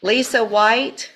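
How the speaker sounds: loud, high, drawn-out call; calling out a name. Real, not acted. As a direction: summon someone across the courtroom. Judge calls next defendant to bench.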